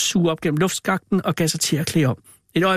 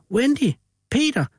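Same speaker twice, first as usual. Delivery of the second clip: much higher calls down the hall; calling out; 10 semitones higher than usual. Acted. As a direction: call for the children anxiously. Parents calling missing children.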